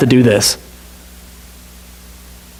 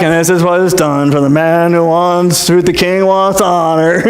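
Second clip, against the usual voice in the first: without gusto. Retold or imitated. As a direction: announce it like it hurts. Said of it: "not said with much gusto".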